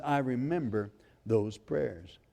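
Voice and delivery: soft, slow I remember those prayers; tender voice of God. Acted. Preacher voicing God's gentle remembrance, soft and slow. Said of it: "God says".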